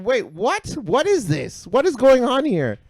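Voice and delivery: high, loud incredulous questions; retold disbelief. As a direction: act out baffled alarm. Retelling shock at child gagging.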